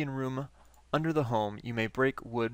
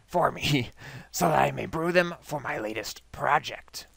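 raspy mad scientist. Acted. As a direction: rasp it out like a scheming scientist. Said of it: "my raspy voice is killing my throat".

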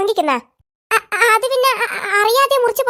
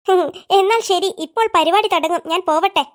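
lightly lowered teacher voice; 5 semitones lower than usual. Acted. Teacher voice, low, slow.

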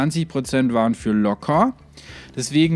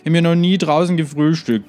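excited; 7 semitones higher, 6 dB louder than usual. Real, not acted. Excited idea breakfast outside.

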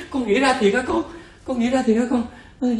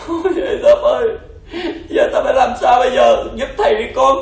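pleading master; 3 semitones higher than usual. Acted. Master begging slave for help.

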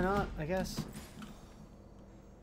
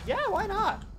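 sarcastic; 4 dB louder than usual. Real, not acted. Sarcastic high acceptance.

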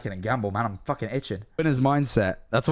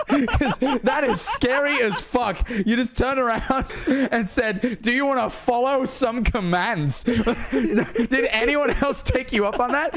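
laughing; 4 semitones higher, slower than usual. Real, not acted.

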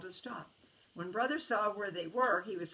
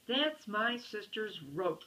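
mild mock shout; 2 semitones higher, slower than usual. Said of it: "shouted Brother".

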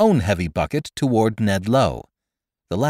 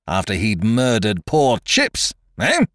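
angry demand rising at the end; furious challenge; 3 dB louder than usual. Acted. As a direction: throw it back as an accusation. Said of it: "pale with fury".

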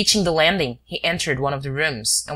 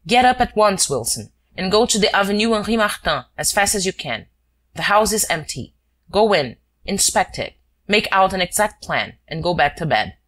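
a touch higher, brisk orders read aloud; reading a letter; 4 semitones higher than usual. Acted. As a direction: read the note in amazement. Shears reads the forged letter.

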